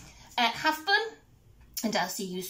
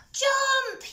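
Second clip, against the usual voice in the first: high, loud pirate yell; yelled command; 5 dB louder than usual. A narrator's reading. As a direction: yell it as a sudden order. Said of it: "yelled the pirates".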